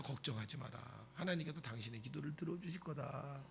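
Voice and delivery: low, soft, soothing priest voice; priest's reassurance. Acted. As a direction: comfort her quietly and low. Old priest reassures weeping woman. (낮고 부드럽게 안심시키는 제사장 말투)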